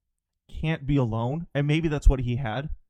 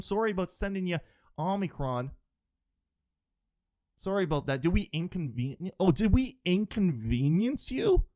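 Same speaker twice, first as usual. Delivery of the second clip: mock-sincere sorry with a sneer; sarcastic mock apology; 3 semitones higher than usual. Sarcastic fake apology to China.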